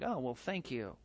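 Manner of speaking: low, hushed sarcastic thanks; sarcastic soft reply. Retold or imitated. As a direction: thank the kid dryly, under your breath. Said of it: "It's like".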